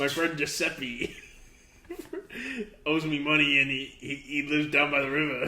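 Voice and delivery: lightly voiced Italian mobster; lazy mock mafioso, breaking into laughs. Host improvises a mobster owed money, lightly voiced Italian mobster. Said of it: "random Italian mobster".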